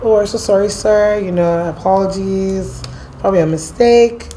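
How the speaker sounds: put-on apologetic American accent, slightly lifted. Jen apologising to armed officers in an American accent. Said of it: "my American accent".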